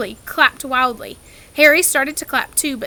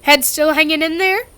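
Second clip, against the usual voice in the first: hearty huntsman; 4 semitones higher, 6 dB louder than usual. A narrator's reading. Hearty hunting ghost.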